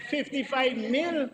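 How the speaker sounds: indignant shock at the sum; outraged disbelief. Real, not acted. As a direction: stretch it out, appalled at the price. Outraged at a cost in parliament.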